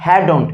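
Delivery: "hadn't" as "hae-don"; pronunciation demo. Shown as a demonstration. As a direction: say "hadn't" in two syllables, falling. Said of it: "had not-কে কি বলবো".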